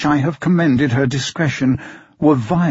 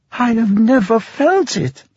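high, earnest protest; emphatic cry; 8 semitones higher than usual. A narrator's reading. Blind girl protesting to her father, earnest cry. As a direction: cry out that you never felt it. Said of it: "cried the blind girl".

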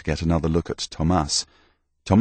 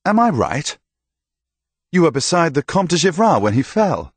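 hearty knight; 11 semitones higher, 4 dB louder than usual. Acted. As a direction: praise him like a proud old soldier. Knight questions Thomas.

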